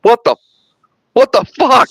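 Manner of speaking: rising, disbelieving mock outburst; baffled what the fuck. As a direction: play Ripley's baffled double take. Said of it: "And she's like".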